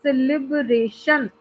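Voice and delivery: slow word as लिब-रे-शन, first beats joined; measured syllables. Shown as a demonstration. Teacher giving a four-syllable example, in measured syllables. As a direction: say सेलिब्रेशन slowly in joined beats. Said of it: "four syllables आ रहे हैं".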